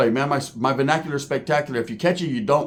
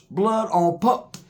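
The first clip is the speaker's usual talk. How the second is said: acted victim; 4 semitones higher, much slower than usual. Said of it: "The black dude was like".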